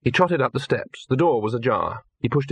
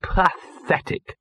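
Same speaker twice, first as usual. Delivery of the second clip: whispered, slow and defeated; miserable; 7 semitones higher, much slower than usual. A narrator's reading. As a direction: sag into misery, almost breathless. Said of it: "said Gaspode miserably".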